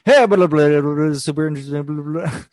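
high, loud, fast auctioneer babble. Pretend. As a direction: rattle off nonsense like an auctioneer. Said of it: "my auctioneer voice".

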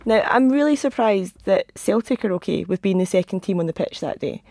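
normal talking voice

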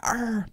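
"R" as a drawn-out growly "arr"; "R" stretched like a pirate's "arr"; exaggerated R. Shown as a demonstration. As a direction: draw out "R" with the R fully sounded. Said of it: "Throw in a little R".

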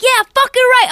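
high, loud heckle joining in; retold courtside cheer of agreement; fired-up agreement. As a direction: shout along with a fellow fan, high and loud. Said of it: "And I'm like".

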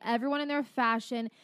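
normal talking voice

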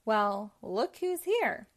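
slow, gloating henchman; sly villain. Acted. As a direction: drag it out, pleased with himself. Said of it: "said Jasper".

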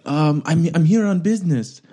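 evasive, lightly fake French accent. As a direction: dodge the question in mock French-accented English. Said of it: "it was like my French accent now".

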